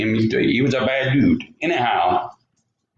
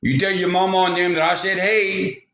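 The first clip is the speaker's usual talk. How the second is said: mild acted holler back; yelling back; 6 semitones higher than usual. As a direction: call it back across a distance, pitched up. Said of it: "And the hunter yelled back".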